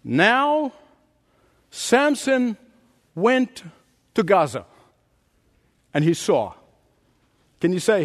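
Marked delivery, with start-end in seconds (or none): 0.0-6.5 word by word with long pauses; slow, careful reading. Shown as a demonstration. Preacher reading Judges to the congregation, very slowly and carefully. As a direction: read scripture slowly, letting each phrase land. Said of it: "read it very slowly and very carefully".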